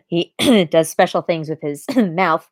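suggestive throat-clearing between words; knowing, euphemistic delivery; coy innuendo. Real, not acted. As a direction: tiptoe round it with pointed throat clears. Coy euphemism for intimate scene.

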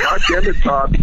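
mock exasperated outburst. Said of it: "I was like".

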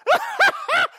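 high hammed-up laugh; high mock laugh; amused laugh. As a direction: burst out laughing at it. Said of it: "He's like".

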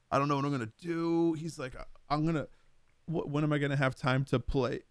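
a light imitation of a boy about to cry; hammed-up kid's distress; imitating a crying kid. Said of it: "you could hear his voice start cracking".

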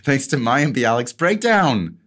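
slow, high mock Italian accent. Reading the letter to his brother, a slow mock Italian accent. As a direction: stretch it out in a cartoon Italian accent. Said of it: "focused on that impression".

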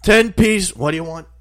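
high, loud and slow repeated order; mock grandpa shout. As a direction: yell the nuggets order like a deaf grandpa. Grandpa relaying order loudly.

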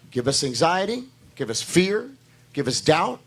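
normal talking voice

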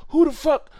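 high, loud, worked-up imitation; mock the ranting guy, pitch up; agitated man. Retelling the metro station man, mock agitated shout. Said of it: "he said".

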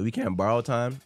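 cracked voice on the line; voice cracking. Real, not acted. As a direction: let the voice crack slightly. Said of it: "My voice cracked".

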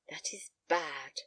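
low, slow, softened murmur; murmured to himself. A narrator's reading. Father thinking aloud before his daughter, murmured low. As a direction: murmur it slowly, half to yourself. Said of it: "he murmured some words".

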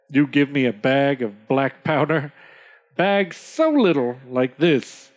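deliberate, sly chief taking his time; grinning Red Owl. Acted. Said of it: "Red Owl says grinningly".

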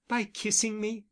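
lightly mocking question. A narrator's reading. Camilla teasing Bent about his kisses, mildly mocking. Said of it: "she mocked".

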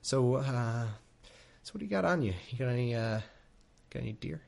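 lightly voiced God, wheedling and needy; a withdrawal-addled God begging for a sacrifice; craving God. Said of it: "He's like".

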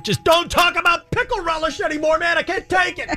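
lightly voiced exasperated Jesus; a hint of a pleading, put-upon Jesus; Christ voice. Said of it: "Christ dragging the devil around".

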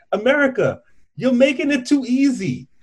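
playful taunting virus voice; cocky little germ, teasing; covid voice. Retold or imitated. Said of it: "covid is like".

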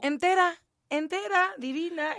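high, gushing compliments; gushing praise. Retold or imitated. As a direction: rave about her looks. Aunt praising sister's look.

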